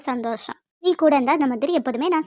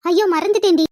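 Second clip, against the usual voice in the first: louder, higher oops of forgetting; sudden dismay; 4 semitones higher, 6 dB louder than usual. Acted. Sathya realizes to her friend she forgot, loud dismay. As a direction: catch yourself forgetting.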